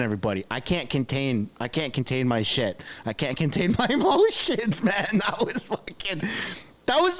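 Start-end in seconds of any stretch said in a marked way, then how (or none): 3.8-7.2 overexcited. Real, not acted. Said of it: "I'm sorry for screaming".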